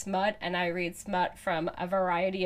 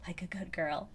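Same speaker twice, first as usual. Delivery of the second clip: softer echo of the line; soft whisper; 8 dB quieter than usual. Acted. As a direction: breathe it back quietly. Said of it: "I whisper".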